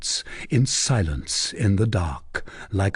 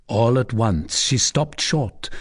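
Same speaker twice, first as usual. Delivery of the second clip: ordinary delivery, nothing marked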